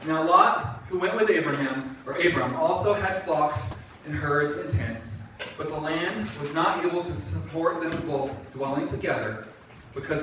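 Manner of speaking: measured reading with deliberate phrase breaks; scripture reading. Acted. Pastor reads Genesis to the congregation, measured reading. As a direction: read it aloud evenly, phrase by phrase.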